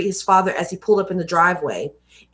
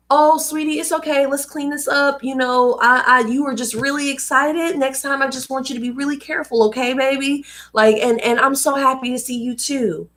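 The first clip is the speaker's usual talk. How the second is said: a higher, soothing mom talking to her little one; gentle parent voice; 5 semitones higher than usual. Retold or imitated. Voicing an ideal gentle parent.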